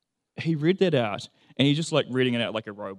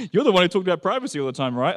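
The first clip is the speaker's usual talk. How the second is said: teasing Jane quote; 7 semitones higher, 8 dB louder, faster than usual. Retold or imitated. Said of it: "Jane's like".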